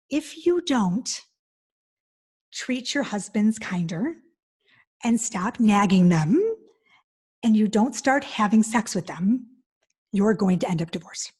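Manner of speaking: slow, deliberate ultimatum with long pauses; stern warning. Retold or imitated. Speaker to wives at her talk, slow stern warning. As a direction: lay down the warning phrase by phrase.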